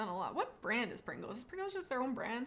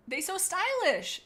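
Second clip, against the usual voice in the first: P=A; high, slow chat quote; 9 semitones higher, 5 dB louder, slower than usual. Retold or imitated. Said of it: "says Dunsaman".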